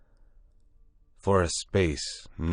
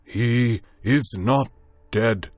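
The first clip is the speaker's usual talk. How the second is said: slow, louder, higher assurance; slowly; 6 semitones higher, 5 dB louder, much slower than usual. A narrator's reading. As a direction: spell it out deliberately. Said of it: "he said slowly".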